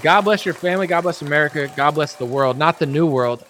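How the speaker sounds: high, mock Biden voice; squeaky doddering old president; hammed-up Biden; Biden impression. Biden corrects.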